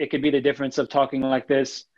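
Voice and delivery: level pitch, no melody; flat monotone. Shown as a demonstration. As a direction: drone it out without any tune. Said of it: "super monotone".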